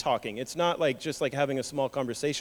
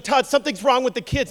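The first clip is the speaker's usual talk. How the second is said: higher anxious; wife fearing for the kids; worried wife; 7 semitones higher, 4 dB louder than usual. Retold or imitated. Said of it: "because she's like".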